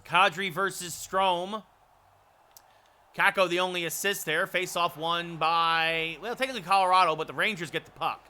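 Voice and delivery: measured face-off call, then following the puck; hockey play-by-play. Pretend. Streamer calls Kadri versus Strome face-off, steady play-by-play. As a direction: call it like a steady rink announcer. Resumes calling the game.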